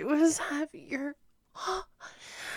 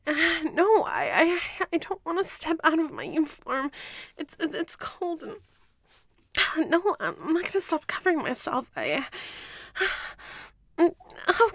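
raised, desperate protest; loud pleading; 3 semitones higher, 5 dB louder than usual. Acted. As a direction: push back hard, voice up. Captive protests loudly to commander.

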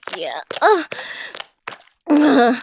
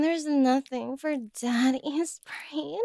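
whisper; 7 dB quieter than usual. Acted. Whispered tease in intimate scene.

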